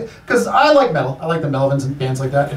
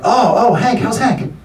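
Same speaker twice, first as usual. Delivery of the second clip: mocking jeer; 8 semitones higher than usual. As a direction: pounce on the nickname in mock awe. Acting comic mocking his name-drop.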